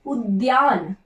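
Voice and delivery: teacher repeats उद्यान as a model; careful model word. Shown as a demonstration. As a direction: pronounce उद्यान slowly with the द्य cluster. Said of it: "उद्यान किस तरह से लिखा जाता है".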